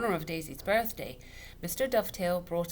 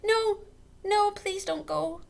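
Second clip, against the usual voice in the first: high, slow desperate plea; girl begging her friends not to leave; pleading cry; 8 dB louder, slower than usual. A narrator's reading. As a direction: beg them to stay. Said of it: "Daisy cried".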